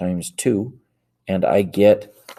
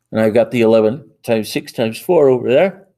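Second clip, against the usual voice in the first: yawning; 5 dB louder than usual. Real, not acted. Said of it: "Excuse me, I'm yawning".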